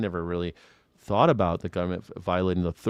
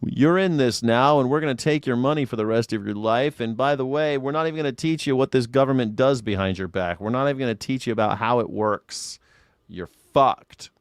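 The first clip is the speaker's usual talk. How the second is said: higher, sneering government spokesman; mocking government voice; 3 semitones higher than usual. Streamer mocking the government addressing citizens, sneering. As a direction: play the smug state talking down to a citizen. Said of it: "It used to be they at least gave you that".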